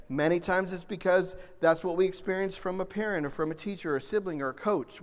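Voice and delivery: ordinary talk, nothing marked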